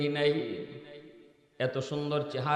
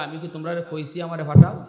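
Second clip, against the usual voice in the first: loud retort; 8 dB louder, faster than usual. Retold or imitated. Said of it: "হুজুর কয়".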